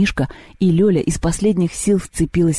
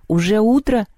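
mildly sleepy, higher-pitched question; just woken; 6 semitones higher than usual. A narrator's reading. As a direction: ask as if struggling to open your eyes. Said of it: "с трудом продирая глаза".

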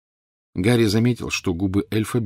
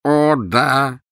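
higher, drawn-out moan; moaning elf; 6 semitones higher, 5 dB louder than usual. A narrator's reading. Elf confirming the dreadful request, moaning. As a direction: moan the assent. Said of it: "простонал Кикимер".

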